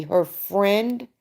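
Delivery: "friend" said with a rising, doubtful tune; pointed "friend". Real, not acted. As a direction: stress on "friend", drawn up at the end. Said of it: "and I say that lightly".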